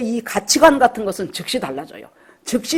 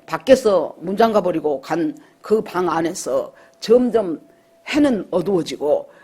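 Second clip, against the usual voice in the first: ordinary talk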